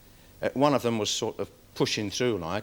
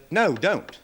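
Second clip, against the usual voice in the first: a real-sounding yell, higher and a bit louder; 6 semitones higher, 4 dB louder than usual. Retold or imitated. Dog handler yelling at the boy to stop. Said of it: "I yelled".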